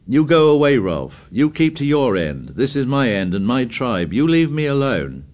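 loud, high shout. Acted. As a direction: shout over the jeering. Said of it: "Jack shouted above the noise".

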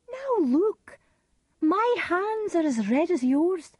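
high-pitched, urgent orders to a husband; Lady Macbeth, commanding. Acted. Lady Macbeth orders Macbeth to wash off the blood, commanding.

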